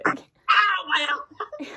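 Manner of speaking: loud sudden ow, then whimpering; pained yelp. Real, not acted. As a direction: cry out from a knock. Just hit her elbow.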